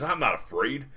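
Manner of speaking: lightly voiced barbarian; a hint of a proud warrior; mildly affronted, put-on fantasy voice; Conan's voice. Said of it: "they're both talking like that".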